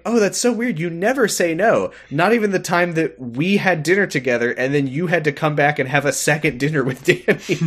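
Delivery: high, pointed teasing; mock needling. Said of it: "He's just trying to own Clara".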